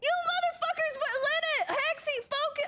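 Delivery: high, stunned yelling at chat; mock outrage at the gifters; excited disbelief. Real, not acted. Streamer yelling at gifters in excited disbelief. Streamer overwhelmed by gift subs.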